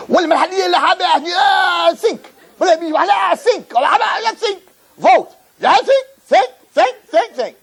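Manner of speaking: high, excited shouting in a mock Arabic accent; hammed-up Bedouins yelling over the sink. The Bedouins shout excitedly about the sink in mock Arabic.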